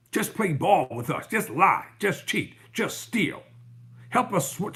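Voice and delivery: mock party insiders leaning on him; mocking the Republicans. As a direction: ham up their threats, pitch climbing as they push. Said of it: "Basically, that's what they're saying".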